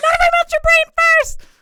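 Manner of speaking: very high, squeaky creature voice, like on helium. Game master voicing a Duragar answering a player: Duragar on helium voice. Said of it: "it's like a Duragar on helium".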